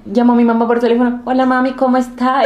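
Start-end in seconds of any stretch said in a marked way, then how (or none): 1.2-2.4 lightly imitated Colombian lilt; Colombian accent. Calling mom from Colombia, imitated Colombian accent. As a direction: greet with a borrowed Colombian accent. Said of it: "vuelvo colombiana".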